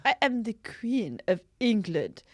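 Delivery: half-hearted royal voice; mock Queen. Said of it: "And then she goes".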